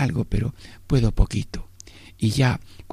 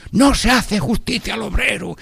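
high, ringing pulpit cry; quoted preacher; 9 semitones higher than usual. Retold or imitated. Priest in his sermon, raised pulpit cry. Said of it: "un cura echando un sermón".

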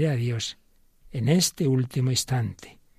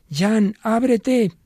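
slow, much higher and louder call; commanding; 9 semitones higher, 5 dB louder, much slower than usual. Acted. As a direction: call out slowly, like opening a door. Pope commanding soul to open.

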